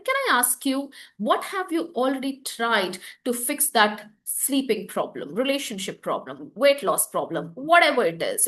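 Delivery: light question rising on Can; rising curious tone. Shown as a demonstration. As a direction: lift the tune, curious and light. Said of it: "it's a rising tone where you say".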